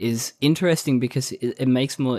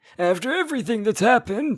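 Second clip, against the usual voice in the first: put-on old man voice, higher pitch; 12 semitones higher than usual. Imitating a dub actor's line from a show: old man voice. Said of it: "old man voice".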